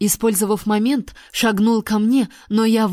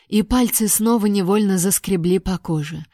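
plain reading voice

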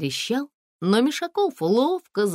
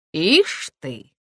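surprised; 4 dB louder than usual. A narrator's reading. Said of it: "удивился подполковник Мишаков".

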